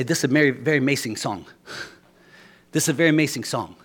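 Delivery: put-on a quick, light Cuban accent; fast and proud, a hint of a Cuban accent; Cuban broken English. Preacher imitating a Cuban musician introducing a song, light accent. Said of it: "He would say".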